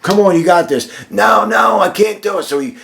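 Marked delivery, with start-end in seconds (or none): 0.0-0.9 high, urgent coach's urging; coach yelling back. Retold or imitated. Coach to the tiring player, yelling encouragement. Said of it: "the coach is yelling back". 1.1-2.4 high-pitched acted protest; player yelling back. Tired player answering his coach, high yelled protest. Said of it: "he's yelling".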